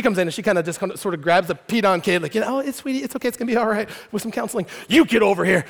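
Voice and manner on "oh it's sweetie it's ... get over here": soothing teacher. Retold or imitated. Kindergarten teacher comforting the kid.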